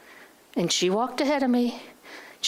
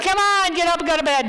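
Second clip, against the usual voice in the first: louder, higher push to get up; repeated nag to herself, now raised and pushier; firmer self-command; 6 semitones higher, 5 dB louder than usual. Retold or imitated. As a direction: insist on going to bed, no more excuses. Repeats self-command more forcefully.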